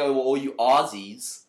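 slow, badly faked Canadian accent; terrible Canadian accent. Quoting a Canadian girl to the co-host, terrible Canadian accent. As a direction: drag it out in a poor Canadian accent. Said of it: "That's a terrible Canadian".

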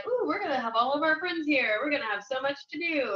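light mock anticipation; retold excitement. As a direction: imitate your eager past selves. Retold hopeful move to Brooklyn.

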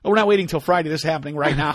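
a bully calling you out; tough guy threat. Retold or imitated. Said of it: "the guy who's like".

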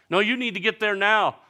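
high, loud urgent plea; urgent pleading. Retold or imitated. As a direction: push him to hurry. Disciples urging Jesus.

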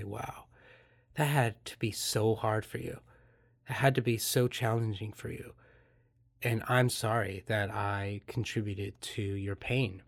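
quiet, gentle, caring words to a hurt partner; soft empathic reply. Shown as a demonstration. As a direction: soften it, let them feel heard.

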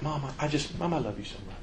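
soft, imitated sweet-talking son; syrupy sweet. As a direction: sweet-talk mama, softly and playfully. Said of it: "he can be so syrupy sweet".

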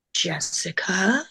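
very slow, measured mimicry; slow, deliberately composed voice; cool doctor imitation. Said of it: "like that".

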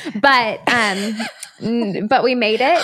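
hoarse, smoker-like rasp; rough raspy throat. Real, not acted. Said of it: "why did I just sound like a smoker".

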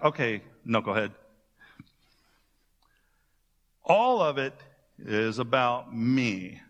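lightly voiced teacher, half scolding a slow student; mock exasperated Jesus. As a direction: tease them like a patient but fed-up teacher.

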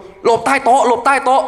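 high, loud and slow, yelling to take cover; frantic friend shouting at everyone to hide under the table; panicked shout. Retold or imitated. Friend in a dorm room yelling about an earthquake, panicked shout. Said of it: "สิ่งแรกที่ไอ้ดิวตะโกน".

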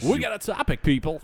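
high-pitched teasing repeat; mock echo. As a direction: parrot the host in a high voice. Mocking repeat of host's line.

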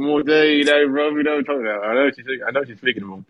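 lightly imitated English boxer's accent; Anthony Joshua. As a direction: put on a loose, rough English accent. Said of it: "That sounds like Anthony Joshua a bit".

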